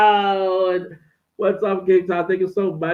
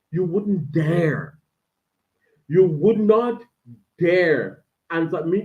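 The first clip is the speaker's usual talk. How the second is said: strict parent; slower than usual. Retold or imitated. Voicing strict black parent.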